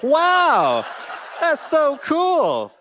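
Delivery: high, slow, wide-eyed wow; overeager praise. Retold or imitated. Justin praising Disney's boss, a high, slow, overeager gush. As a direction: gush far too much like a starstruck kid. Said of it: "or, like, something like".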